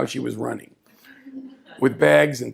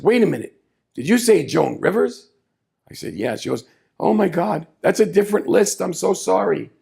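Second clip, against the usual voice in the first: higher, louder sudden realization; higher, louder flustered apology; flustered surprise; 5 semitones higher, 3 dB louder than usual. Retold or imitated. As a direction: catch yourself and apologize in a rush.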